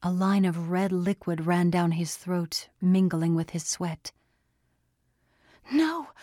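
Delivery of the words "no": high anguished cry of "No"; desperate cry, pitched high; scream. A narrator's reading. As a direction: narrator voicing a panicked woman. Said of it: "Andy screamed".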